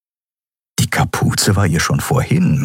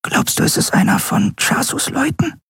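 very high, hushed character voice; thin, high half-whisper. A narrator's reading. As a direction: whisper the question in a tiny high voice. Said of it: "flüsterte Nelen zurück".

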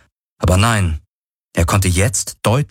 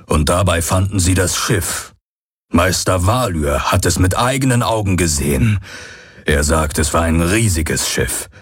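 Hox voice. Acted. The Aur Hox tells history.

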